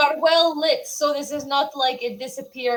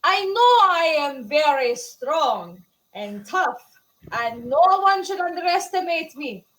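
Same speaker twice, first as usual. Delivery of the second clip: Skull's voice. Acted. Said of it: "Skull makes comment of".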